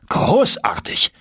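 high, drawn-out cry of delight; exultant outburst; delighted exclamation. A narrator's reading. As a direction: call it out, slow and high-pitched. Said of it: "rief mein Onkel".

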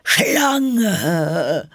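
high, loud bird screech; screeching pigeon. A narrator's reading. Pigeon attacks Alice as a snake, screeching. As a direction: shriek it out like an alarmed bird. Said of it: "kreischte die Taube".

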